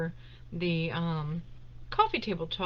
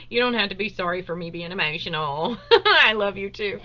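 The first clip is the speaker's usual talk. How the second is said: teary laughing; 6 dB louder than usual. Real, not acted. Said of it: "my empathetic self over here crying".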